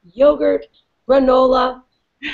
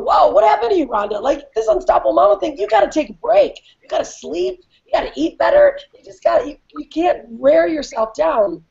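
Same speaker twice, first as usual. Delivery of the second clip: self-scolding; 5 semitones higher than usual. Retold or imitated. Scolding herself in a quote.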